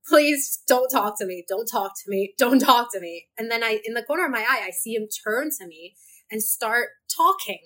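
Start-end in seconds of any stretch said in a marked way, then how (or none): 0.1-3.3 urgent, pleading under her breath; rising panic, don't talk to me; panicked inner plea. Retold or imitated. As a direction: beg him silently not to speak. Inner plea, walking with stranger.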